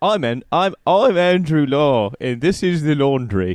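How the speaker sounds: put-on accidental British accent, stumbling at the start. Introduce yourself as Andrew Law to Andrew himself, an Andrew Law impression that comes out British. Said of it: "it came out British".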